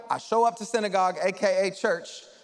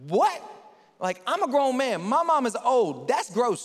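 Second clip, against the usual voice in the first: a grown man baffled and grossed out; incredulous; 3 semitones higher than usual. Retold or imitated. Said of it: "And then Nick goes".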